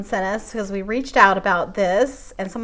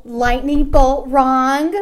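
mock emphasis; 3 semitones higher, 6 dB louder, much slower than usual. Mocking Brad's phrase.

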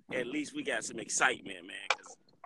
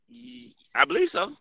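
crackly dropout-ridden phone voice; buzzy glitchy call audio; 10 semitones higher, 6 dB louder than usual. Real, not acted. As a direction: speak through a failing connection. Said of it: "you breaking up".

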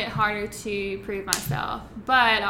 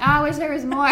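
laughing; 5 semitones higher, 8 dB louder than usual. Retold or imitated. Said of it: "And so I'm like".

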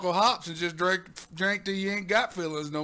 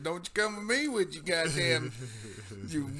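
put-on old prospector. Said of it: "I'm just".

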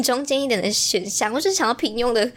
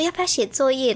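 gentle voice; 3 semitones higher than usual. Retold or imitated. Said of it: "我就用温柔的声音跟他说".

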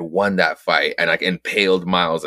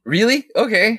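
surprised; 14 semitones higher than usual. Real, not acted. Told the comic is funny.

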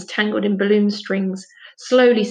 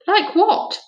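innocent surprise; 10 semitones higher, 4 dB louder than usual. A narrator's reading. Finn surprised question.

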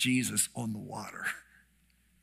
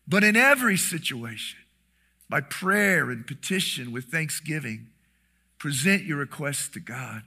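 scripture reading. Acted. Preacher reading Philippians aloud.

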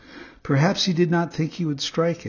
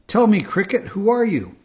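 higher, louder puppet voice; cheeky puppet boy; 7 semitones higher, 5 dB louder than usual. Acted. Pinocchio questioning the cricket, higher puppet voice. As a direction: play the marionette demanding.

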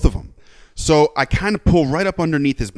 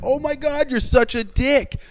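incredulous; 14 semitones higher, slower than usual. Retold or imitated. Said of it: "it was like".

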